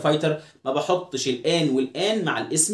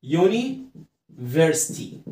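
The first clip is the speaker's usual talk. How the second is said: very slow, stretched "يوني", pause, then "فرستي"; slow syllable split; much slower than usual. Shown as a demonstration. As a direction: sound out "يونيفرستي" in two drawn-out halves. Teacher sounds out the new word. (نطق "يونيفرستي" ببطء شديد ومقطّع)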